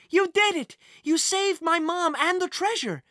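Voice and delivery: high, joyful squeal of praise; excited. A narrator's reading. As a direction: gush with delight. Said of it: "her arms flailing with excitement".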